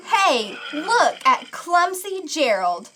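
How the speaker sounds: jeering at Gerald with a laugh; a sneering taunt, half laughing; laughing mockery of the clumsy giraffe; mocking sneer. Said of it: "all the animals sneered".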